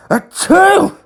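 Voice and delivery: high, loud sneeze. Acted. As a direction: sneeze hard. Sneezing, allergic to glass.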